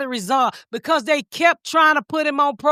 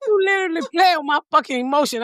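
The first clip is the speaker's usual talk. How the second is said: laugh-crying; 4 semitones higher, faster than usual. Real, not acted. Laughing to tears about the story.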